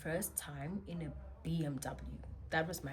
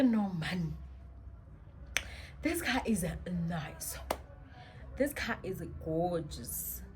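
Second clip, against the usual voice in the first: admiring shock; slower than usual. Retold or imitated. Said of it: "I'm in shock".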